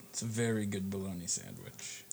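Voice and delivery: talking through a mouthful; mouth full. Acted. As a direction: say it mid-chew. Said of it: "with my mouthful".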